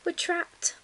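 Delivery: high-pitched little bear's wail; distressed cry. A narrator's reading. Little bear finding the doors shut, distressed cry. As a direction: cry out in mild panic. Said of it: "cried the little bear".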